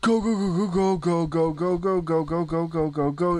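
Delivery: fast frantic repeating; panicked urging. Real, not acted. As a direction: rush yourself in panic. Fleeing in panic.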